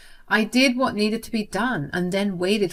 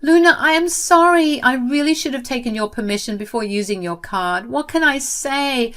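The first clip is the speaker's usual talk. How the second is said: high, loud, tearful pleading; crying apology; 9 semitones higher, 4 dB louder than usual. Acted. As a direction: beg forgiveness through tears. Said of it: "She cried and said".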